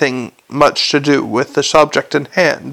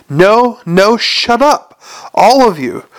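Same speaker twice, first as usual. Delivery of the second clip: mildly raised voice, higher in pitch; exasperated command; 4 semitones higher, slower than usual. Acted. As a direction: call a noisy group to order. Carrot silencing the arguing dwarfs.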